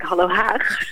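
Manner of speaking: "Hallo Haag" in plain Dutch sounds, ending on a throaty g; misheard title. Shown as a demonstration. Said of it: "ik verstond Hallo Haag". (als Nederlands "Hallo Haag", met harde g)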